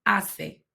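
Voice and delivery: "Hace" starting straight on the vowel, "ah-seh"; silent H. Shown as a demonstration. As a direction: drop the H entirely in "Hace". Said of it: "is always silent".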